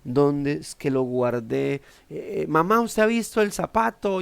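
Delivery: a hint of a flustered daughter hunting for a shoe; fussy searching daughter. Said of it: "pasaba la hija y empezaba".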